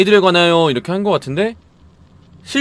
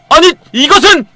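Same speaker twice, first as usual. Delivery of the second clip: hammed-up gasp of discovery, higher and louder; mock surprise; 9 semitones higher, 8 dB louder than usual. Gamer hamming up finding the trap, mock surprise. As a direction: play a dramatic gasp at the discovery.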